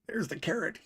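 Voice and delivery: high coaxing whisper to a pet; high whispered coaxing to the price chart. Pretend. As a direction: coax it like feeding a bunny.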